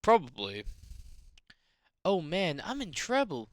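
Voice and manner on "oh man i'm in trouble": worried detective slipping into southern twang; higher, lilting southern-tinged groan; mistaken southern accent. Acted. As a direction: lament in an accidental southern accent. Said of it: "Give Gumshoe a southern accent".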